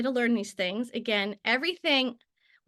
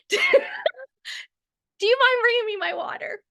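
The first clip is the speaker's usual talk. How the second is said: sweet request; 10 semitones higher, 3 dB louder than usual. Real, not acted. Asks husband for water.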